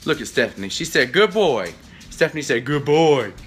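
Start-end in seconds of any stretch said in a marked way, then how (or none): 1.1-1.7 Stephanie. Retold or imitated. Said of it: "She got that deep Yankee voice". 2.7-3.3 Stephanie. Retold or imitated. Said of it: "She got that deep Yankee voice".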